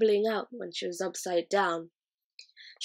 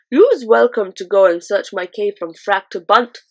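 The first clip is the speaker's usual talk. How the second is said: BFG answers; 11 dB louder than usual. A narrator's reading. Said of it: "the B F G answered".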